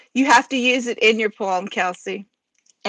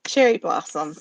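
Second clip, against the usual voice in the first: cherry blossom set apart, stress on cherry; stressed secret word; 5 semitones lower than usual. Shown as a demonstration. Host spells out the secret word with stress. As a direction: announce cherry blossom deliberately. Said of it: "the only way you know the word".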